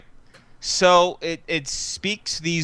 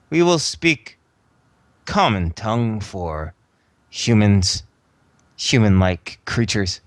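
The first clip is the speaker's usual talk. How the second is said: tinny armored voice. Acted. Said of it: "a simple, high, tinny voice".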